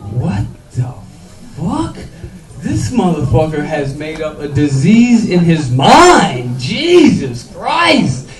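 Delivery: stretched, disbelieving "Jesus Christ"; amazed he made up a disease; incredulous. Retold or imitated. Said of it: "So I'm like".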